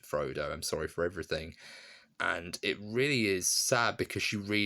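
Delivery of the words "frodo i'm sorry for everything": low, subdued quoted apology; guilty apology. Retold or imitated. Hobbit apologising to Frodo, guilty and subdued. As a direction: murmur it lower, weighed down with guilt. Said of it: "he genuinely feels guilt then".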